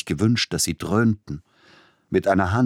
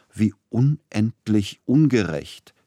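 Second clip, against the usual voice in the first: slow, higher, louder mock lament; wailing with relish; 5 semitones higher, 4 dB louder, slower than usual. Agent protesting the firing, a relished wail. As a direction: complain while enjoying it. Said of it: "rief der Agent klagend, dabei aber genießend".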